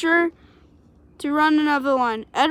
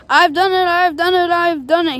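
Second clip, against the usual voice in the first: proudly; 3 semitones higher than usual. Acted. Gordon at the top of the hill, mildly proud and pleased. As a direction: crow it lightly, pleased with yourself. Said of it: "he said proudly".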